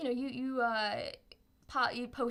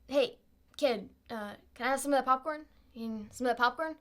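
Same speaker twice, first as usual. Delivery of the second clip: small squeaky rabbit voice; a tiny creature begging for popcorn; pixie; 3 dB louder than usual. Acted. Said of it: "you hear a little voice that says".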